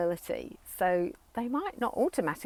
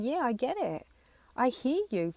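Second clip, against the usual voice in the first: validating; 6 semitones higher, 4 dB louder than usual. Shown as a demonstration.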